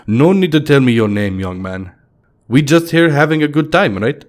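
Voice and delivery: a Russian stranger waving off the name; Russian accent. Acted. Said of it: "in a very heavy Russian accent".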